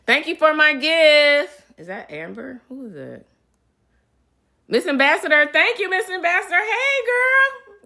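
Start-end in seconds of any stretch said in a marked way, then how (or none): 0.1-1.6 high, loud, slow squeal of thanks; excited high greeting. Real, not acted. Thanking fans for live gifts. 4.7-7.8 very high, loud sing-song greeting; excited squeal. Real, not acted. Greeting a fan by name.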